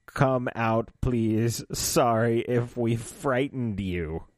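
slow, measured, lightly voiced Dalek; Dalek imitation. Dalek coaxing the hiders out of the cave, light Dalek imitation. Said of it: "when the Dalek said".

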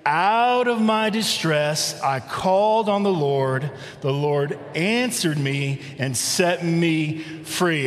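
slow, measured verse read in unison; congregational reading. Shown as a demonstration. Pastor leading the church in reading the verse aloud, slow. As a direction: lead the room through the verse, slow and steady. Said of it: "all together out loud read verse five".

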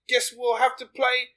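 put-on a would-be Canadian accent that comes out Australian; Australian-sounding Canadian accent. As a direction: play a Canadian but slide into Aussie, mate. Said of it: "did you think that you were in Australia".

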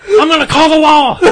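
high, loud hillbilly voice, laughing through it; old Kentucky man. Retold or imitated. Imitating an old Kentucky shop owner, high and laughing. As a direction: do the old store owner threatening the cops, laughing. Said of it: "And Jack goes like".

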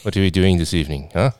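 put-on a light South African accent, a bit quick; lightly South African flirt. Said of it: "South African for you".

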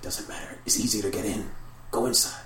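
insistent whispering urge; partly whispered coaxing from unseen spirits; whispers. Acted. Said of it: "Whispers go on".

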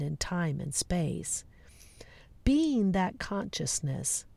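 gently paced meditation guide with long pauses; guided meditation. Acted. Host guiding listeners into the field of possibilities, guided meditation.

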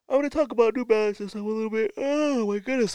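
very high, fast squeaky voice. Pretend.

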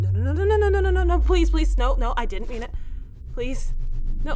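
loud, high, desperate begging; panicked pleading. Acted.

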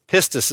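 "Pistis" as PIS-tis; "Pistis" pronounced carefully for learners; demonstrated Greek pronunciation. Shown as a demonstration. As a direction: say "Pistis" in two crisp syllables, PIS-tis. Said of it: "is how you say that word".

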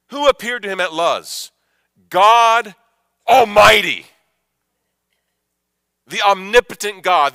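loud, high, rising sermon climax; fervent preaching. Real, not acted. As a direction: preach it with full conviction. Preaching at full force.

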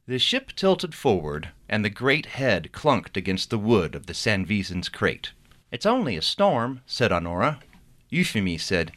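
reading his novel aloud with character voices; story narration. A narrator's reading. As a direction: tell the chapter like a storyteller. Author reads novel chapter aloud.

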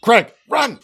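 high, slow, loud shriek of horror; panicked scream. Acted. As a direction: shriek at the rotting orc, then yell for Greg. Goblin flees the deadly gas cloud.

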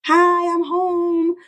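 high, slow sing-song hello; joyful greeting. Shown as a demonstration. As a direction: sing it out happily, coming through the door. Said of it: "speaking with music and joy in my voice".

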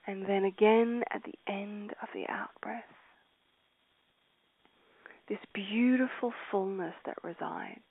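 breathy meditative whisper. Acted. Guide whispering to meditating listeners, hushed. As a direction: let the words dissolve into a whisper.

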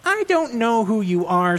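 Velma voice. Acted. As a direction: put him in his place, primly. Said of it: "Velma says".

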